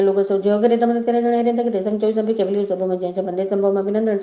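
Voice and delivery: even, chant-like prayer recitation. Acted. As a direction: recite sacred verses in a steady tone.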